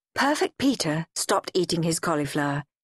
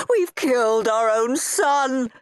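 mock moan; 5 semitones higher than usual. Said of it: "Dad would moan".

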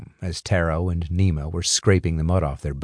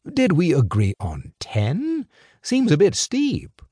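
put-on a sly older fixer, amused and in control; smooth crime boss; 9 semitones higher than usual. Crime boss lecturing two young couriers, sly and amused. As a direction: toy with the boys like a patient boss.

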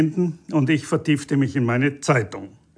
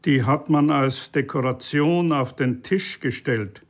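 ordinary delivery

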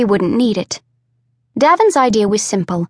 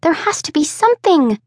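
higher, fierce insistence; 7 semitones higher than usual. A narrator's reading. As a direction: refuse to give up, fiercely. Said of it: "Jira said fiercely".

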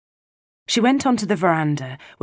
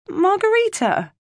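put-on tearful child; 3 dB louder than usual. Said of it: "tears running down her face".

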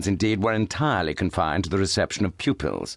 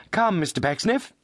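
with a smile; 10 semitones higher than usual. A narrator's reading. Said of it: "he said with a smile".

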